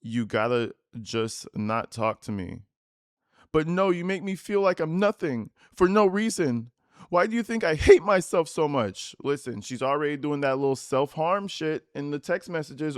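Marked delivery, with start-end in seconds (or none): 0.0-2.6 Dom's text, voiced low. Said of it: "And he responds". 3.5-9.1 put-on higher, whining, reproachful girlfriend voice; whiny girlfriend. Reading her texts aloud.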